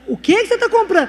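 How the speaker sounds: retold phone-call astonishment; shocked sister. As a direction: demand it in disbelief.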